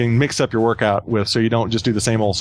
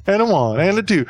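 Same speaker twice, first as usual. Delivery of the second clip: high, bouncy bandleader count-in; a bandleader; 7 semitones higher than usual. Pretend. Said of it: "That was, that was Lawrence Welk".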